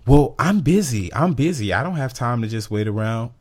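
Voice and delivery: high, impatient complaint; mock huffy customer. Mimicking the rude customer snapping at the agent. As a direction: act the rude lady brushing him off. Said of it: "customer quoted arguing".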